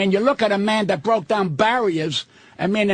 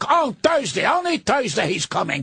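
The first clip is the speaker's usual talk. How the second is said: mocking quote. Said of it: "I love it when they say".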